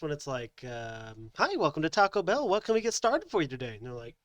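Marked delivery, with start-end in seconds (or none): 1.4-3.8 higher, perky recorded welcome; recorded greeter. Retold or imitated. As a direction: imitate a cheery drive-thru recording. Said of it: "they have a recorded message".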